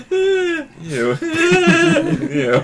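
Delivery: high laughing ew; disgusted laughing. Real, not acted. Reacting to slimy touch.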